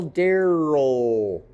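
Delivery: Daryl with the L itself as the syllable; slow falling Daryl, no separate vowel before L; vocalic L. Shown as a demonstration. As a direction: stretch the end of Daryl into a long L. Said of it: "Do you hear a vowel there".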